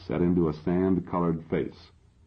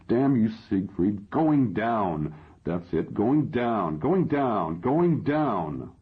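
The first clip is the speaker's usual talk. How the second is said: crying out in rage; 6 semitones higher, much slower than usual. Acted. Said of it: "now I'm really crying".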